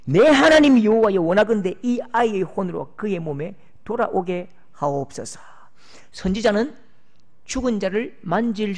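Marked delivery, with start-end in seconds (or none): 0.0-5.4 crying out to God. Acted. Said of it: "여호와께 부르짖어 이르되".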